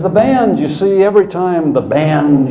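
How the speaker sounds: loud, high mock coach rant; an old coach venting about the band; hammed-up folksy coach voice; imitating Skip. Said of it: "He says".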